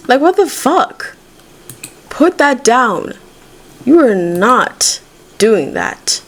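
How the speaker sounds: real irritation, leaning on the words; exasperated scolding at the game; aggravated. Real, not acted. Gamer scolding a Sim who took the food, aggravated. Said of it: "I'm kinda aggravated right now".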